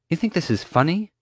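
high-pitched, exasperated challenge; at wit's end. A narrator's reading. Mom confronting the laughing guard, at wit's end. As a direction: ask it on the edge of losing it. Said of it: "nearing her wit's end".

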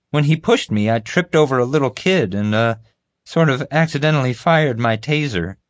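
high, loudish, hedging voice; bumbling guard. Acted. Guard admitting his taser accident, sheepishly. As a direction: own up in a high-pitched guard voice.

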